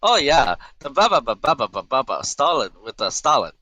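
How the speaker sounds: high, loud mocking repeat of garbled speech; bewildered, hammed-up mimicry of what was heard; Bara. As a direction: parrot back a thick accent as babble. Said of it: "Bara's like".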